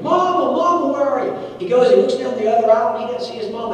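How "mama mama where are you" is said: put-on high, loud child's scream for his mother; a lost little boy calling out loud, scared; screaming for mama. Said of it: "now he starts screaming".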